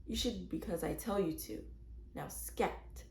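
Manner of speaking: a quiet, firm order to her daughter; quietly. Acted. Mother quietly sends impudent Mary away, hushed. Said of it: "She said quietly".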